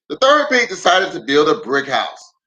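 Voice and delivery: storybook read-aloud with lively swings; reading to children. Acted. Pastor reading a picture book aloud to kids online.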